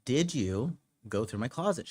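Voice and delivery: pointed repeat question. Retold or imitated. Man asking his girlfriend a second time, pointed and deliberate. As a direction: press the question, drawing out "did you". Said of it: "gonna ask you again".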